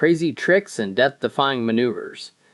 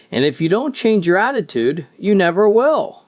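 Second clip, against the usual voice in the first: leering smutty joking; 7 semitones higher than usual. Acted. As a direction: land the dirty punchline with a grin. Wife's cheeky punchline to husband.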